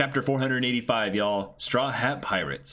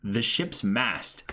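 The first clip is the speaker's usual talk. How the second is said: slow awe; slower than usual. Real, not acted. Slow awed commentary.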